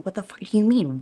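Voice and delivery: retold indignant comeback; indignant retort. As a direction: fire back in mock outrage. Acted retort to his question.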